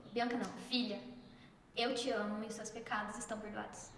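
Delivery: low, soft, fatherly reassurance; tender quote of Jesus. Retold or imitated. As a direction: forgive gently, without hurry. Jesus's tender words retold.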